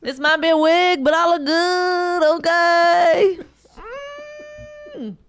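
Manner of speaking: strut vocally with hammed-up confidence; sassy, self-loving mock diva; transvestite impression. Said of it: "that's my transvestite voice".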